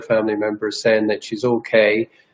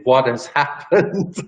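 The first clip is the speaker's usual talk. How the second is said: slow, with a laugh breaking in; half-laugh of bewilderment; laughing disbelief; 2 semitones higher, slower than usual. Retold or imitated. Recalling being thrown out, a slow bewildered laugh.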